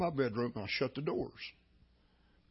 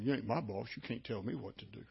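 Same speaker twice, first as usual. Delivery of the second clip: the grumbled "You ain't my boss" muttered low and much softer; sulky mumble walking away; mumbled under breath; 3 semitones lower, 7 dB quieter than usual. Retold or imitated. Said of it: "I heard her mumble".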